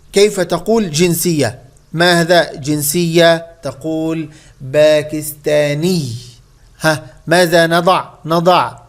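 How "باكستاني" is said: "باكستاني" slowly, a clear doubled final ياء; nisba ending shown. Shown as a demonstration. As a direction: draw out "باكستاني" to show the ending -iyy. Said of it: "ياء وشدة".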